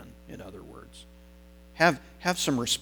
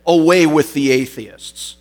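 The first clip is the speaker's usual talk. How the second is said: higher, much louder acted proclamation; defiant retort; 4 semitones higher, 8 dB louder than usual. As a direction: throw it forcefully back at the crowd. Polycarp turns it on pagan crowd.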